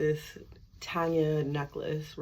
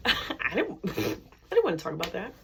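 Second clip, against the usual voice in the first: laughing through the words; embarrassed laugh; 3 dB louder than usual. Real, not acted. Dodging God's question about cheating, laughing sheepishly. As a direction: giggle it out, caught out.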